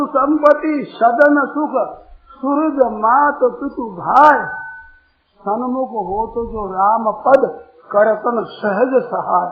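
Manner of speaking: slow, drawn-out devotional couplet; verse recitation. Real, not acted. Preacher reciting scripture on leaving worldly wealth, slow verse recitation. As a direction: recite it line by line, stretching the phrases.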